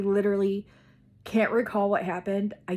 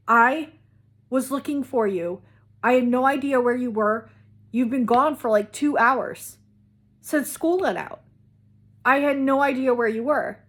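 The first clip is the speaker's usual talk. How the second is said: higher and louder, a scared mother scolding; frantic mom; 4 semitones higher, 6 dB louder than usual. Retold or imitated. Mom telling her lost daughter she searched for hours, frantic and loud. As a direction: let the panic pour out. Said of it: "she is frantic".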